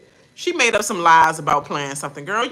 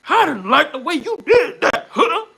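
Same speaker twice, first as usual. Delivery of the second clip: higher and louder, firm and pointed; strong firm delivery; 10 semitones higher, 8 dB louder than usual. Retold or imitated. Showing how she stood up to him, higher, louder, firm. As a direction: put strength behind every word. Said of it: "You see that strength?".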